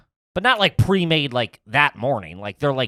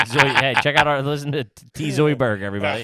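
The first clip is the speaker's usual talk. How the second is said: laughing; 3 semitones higher, 5 dB louder than usual. Real, not acted. Laughing call to friends.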